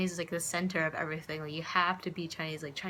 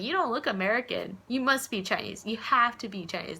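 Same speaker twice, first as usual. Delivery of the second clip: insistent vendor; 4 semitones higher, 5 dB louder than usual. Retold or imitated. Vendors insisting she's Chinese.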